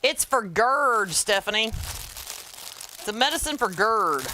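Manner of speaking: slow and deliberate, spelling it out; slow pointed correction. Real, not acted. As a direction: say it slowly, like you're correcting her twice. Correcting Stephanie slowly, pointedly.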